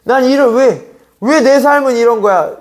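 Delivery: put-on "why me" wail; mock whining lament. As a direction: act out someone bemoaning their life, stretched and high. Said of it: "그것 때문에 울고 그것 때문에 힘들어가지고".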